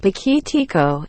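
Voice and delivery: POQUITICO with an extra syllable; imitated mispronunciation. Complaining about how speakers say poquito, mock mispronunciation. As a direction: say "poquitico" as others wrongly do. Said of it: "When they go and say".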